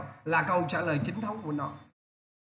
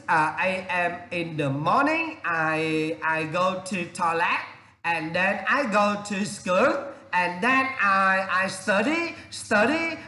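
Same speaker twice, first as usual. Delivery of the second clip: slow, halting student reply; slow flat answer full of uh and I; slower than usual. Shown as a demonstration. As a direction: plod through like a nervous student. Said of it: "có nhiều bạn sinh viên nói rất bình thường".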